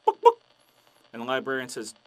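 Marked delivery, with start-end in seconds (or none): 0.1-0.4 high, loud double cluck; two squawked hen clucks; chicken cluck. Acted. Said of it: "Chicken comes back ... counter and says".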